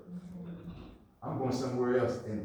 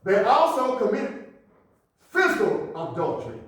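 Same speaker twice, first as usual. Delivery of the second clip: raised, punchy sermon delivery; forceful preaching; 8 semitones higher, 8 dB louder than usual. Acted. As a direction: preach it out to the congregation.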